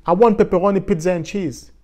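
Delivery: mock American customer ordering; imitating a fast American order; American accent. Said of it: "l'accent est tellement parfois dur à entendre". (imitation légère d'un client américain)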